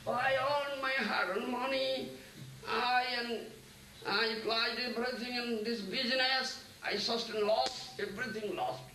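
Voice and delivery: acted lament. Crying man answers his consoler about his lost business, mock lamenting. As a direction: mildly wail over losses, stretching the words. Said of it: "so he is crying".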